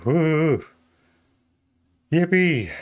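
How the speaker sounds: high, bright little cheer; cheerful yippee. Real, not acted. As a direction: sing out a happy yippee. Cheering at own success.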